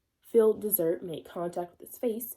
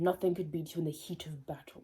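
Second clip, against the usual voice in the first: whispered; 2 semitones lower, 4 dB quieter than usual. Real, not acted. Trails off into whisper.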